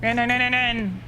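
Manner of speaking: urgent high repeated yell; yelling while running away. Real, not acted. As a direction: shout it while fleeing in a panic. Urging escape, repeated shout.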